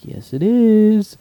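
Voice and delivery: high, loud, drawn-out comeback; retold insistence. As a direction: stretch it out as a mock insistent retort. Retold argument, insisting back.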